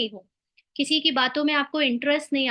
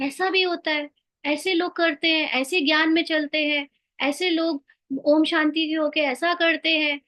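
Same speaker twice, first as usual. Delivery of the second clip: mock astonishment; 3 semitones higher than usual. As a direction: act out someone marvelling at others. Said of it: "आश्चर्य की मात्रा भी नहीं".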